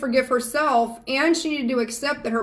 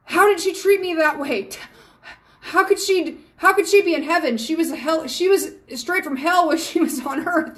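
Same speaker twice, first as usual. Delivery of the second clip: mock sobbing client; 5 semitones higher than usual. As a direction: mimic a weeping daughter's outrage at her mom. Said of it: "they're sobbing and like".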